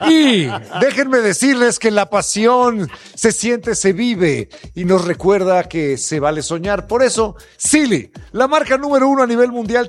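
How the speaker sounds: slow, drawn-out commercial announcer read. Acted. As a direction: sell the mattress like a TV spot. Host reads a sponsor ad.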